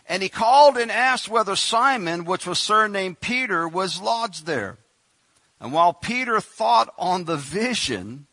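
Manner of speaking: proclaiming the verse, then slowing at the end; scripture reading. Acted. Preacher reading Peter's vision to the church, proclaiming. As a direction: read it out like the King James, building then easing.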